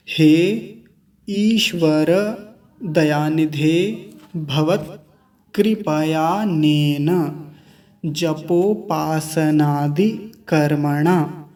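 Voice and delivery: slow, measured recital of the mantra; mantra recitation. Acted. Teacher reciting the full samarpan mantra to students, slow recitation. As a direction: chant it word by word, unhurried.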